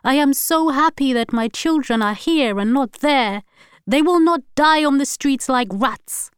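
loud, high angry shouting throughout; furious tirade. A narrator's reading. Wife raging at husband in fight, shouting. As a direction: she lashes out in fury.

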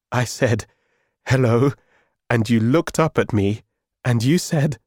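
acted mirth, building in pitch; laughing loudly. A narrator's reading. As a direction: tell it as if tickled by the memory. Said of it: "He was laughing really loudly now".

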